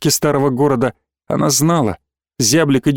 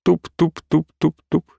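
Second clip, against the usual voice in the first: cheerfully; slower than usual. A narrator's reading. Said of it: "весело добавила".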